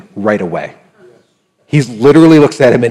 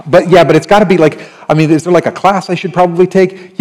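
eager questioner; 6 semitones higher, 3 dB louder, faster than usual. Retold or imitated. Voicing a congregant asking.

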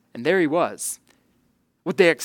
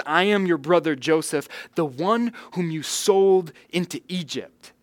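stronger repeat; 3 semitones higher than usual. Retold or imitated. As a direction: press the name home. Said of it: "but he says it again".

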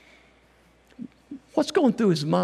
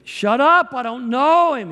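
higher, louder snapped denial; angry denial; 6 semitones higher, 6 dB louder than usual. Acted. Peter denying Jesus at the charcoal fire, loud and angry. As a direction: snap it out like a cornered man.

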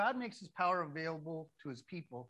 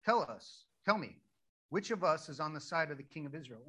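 loud opening, mock-demanding king; 4 dB louder than usual. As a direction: demand an answer from your officers, mildly acted. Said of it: "demanded of them".

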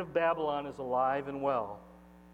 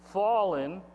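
raised, ringing proclamation; mighty shout; 4 semitones higher, 5 dB louder, slower than usual. Acted. Pastor reads the angel's announcement of Babylon's fall, mighty shout. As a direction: call each word out higher and louder. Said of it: "with a mighty voice shouts".

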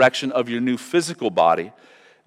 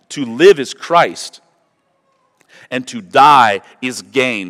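slow, weighty reading of the verse; solemn scripture reading; 5 dB louder, slower than usual. Acted. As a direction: let each phrase land slowly. Reads verse with weight, slowly.

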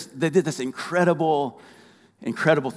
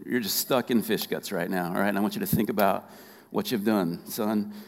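a hint of a stern father, softer and lower; stern God voice; 3 semitones lower, 3 dB quieter than usual. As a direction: scold him quietly like a father. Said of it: "he probably was like".

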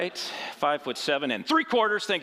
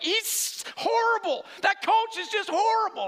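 bitter complaint; 3 dB louder than usual. Retold or imitated. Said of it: "And I'm like".

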